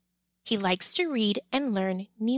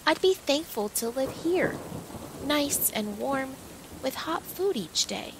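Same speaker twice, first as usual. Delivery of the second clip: sighing; 3 semitones higher, 3 dB quieter than usual. Acted. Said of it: "Pearl says with a sigh".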